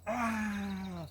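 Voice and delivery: drawn-out high cry of release; high, sustained sigh-cry; long high "ah". Acted. Hunter just after finishing the bear, long high cry. Savours the kill after attack.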